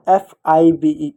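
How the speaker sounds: slow, letter-by-letter spelling; spelled out slowly. Shown as a demonstration. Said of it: "इस शब्दों को हम तोड़ देते हैं". (धीरे-धीरे, एक-एक अक्षर अलग)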